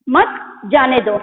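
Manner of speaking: मत जाने दो as one separate phrase, falling; मत joined to जाने दो. Shown as a demonstration. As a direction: begin afresh on मत after the pause. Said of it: "थोड़ा देर रुके".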